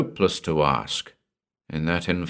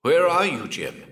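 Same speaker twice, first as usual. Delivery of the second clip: high searching call; 9 semitones higher than usual. Acted. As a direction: reach out with the voice. Calling across the void.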